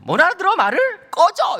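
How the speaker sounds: high, loud mock teen outburst; retold defiant yelling. Son shouting his father away, exasperated. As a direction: imitate a son losing patience with dad. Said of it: "이래".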